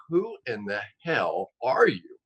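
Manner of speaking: slow, drawn-out astonishment; amazed demand. Retold or imitated. Guest retelling his question to the expert caller, slow amazement. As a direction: space out each word in mock disbelief.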